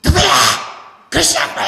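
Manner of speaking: a loud, harsh mock yell at the door; retold yell. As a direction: shout like an angry woman behind the door. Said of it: "여자가 소리를 얼마나 지르죠".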